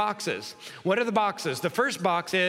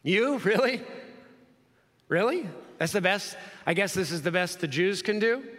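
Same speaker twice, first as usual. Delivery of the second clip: mocking Pilate. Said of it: "Pilate is mocking him".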